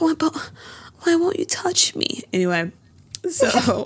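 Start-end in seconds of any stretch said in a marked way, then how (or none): 0.0-2.2 very high, storybook princess voice. Re-performing a character's line from an episode: imitating a Disney princess voice. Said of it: "She sounds like a Disney princess".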